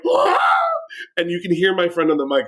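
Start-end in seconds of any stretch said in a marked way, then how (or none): 0.1-0.4 a very high, louder short yelp of shock; hammed-up scream as the bug hits; high startled yelp; mock scream. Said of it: "And I go like".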